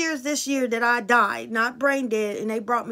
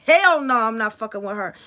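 emphatic refusal; 6 dB louder than usual. Retold or imitated. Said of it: "I said".

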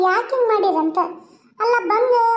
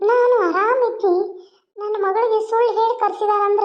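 crying. Acted. Mother upset by trick.

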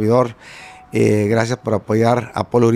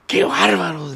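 retold shout; 6 semitones higher, slower than usual. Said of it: "les gritó así fuerte".

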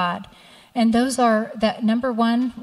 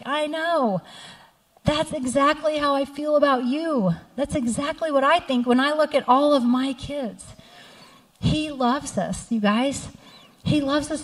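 higher, softer, choked up with real tears; moved to tears, higher and hushed; tearful; 4 semitones higher, 3 dB quieter than usual. Real, not acted. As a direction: voice God's words while fighting tears. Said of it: "I started crying because he was like".

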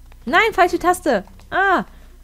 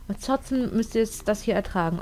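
ordinary delivery

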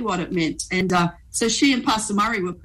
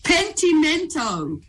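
slow, drawn-out Italian pronunciation of "Pentimento"; "Pentimento" said slowly with an Italian accent; 6 semitones higher, slower than usual. Retold or imitated. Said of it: "he said it with an accent as well".

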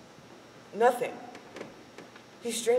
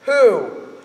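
eager loud question; 5 semitones higher, 10 dB louder than usual. Acted. Man in bar asks eagerly.

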